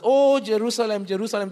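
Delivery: grieving cry over the city; pathos-filled lament. Shown as a demonstration. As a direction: let the repeat fall away with tender ache. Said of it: "the repetition is for intensity of affection".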